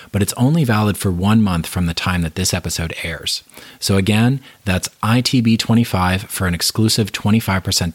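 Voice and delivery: upbeat promo read. Acted. Host announcing discount code to podcast listeners, upbeat ad read. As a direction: sell the discount code cheerfully.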